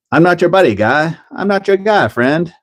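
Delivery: high, bickering cartoon Canadian; South Park Canadian. Quoting the South Park Canadians bickering. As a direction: snap it back and forth like the show. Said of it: "all the Canadians have these flappy heads".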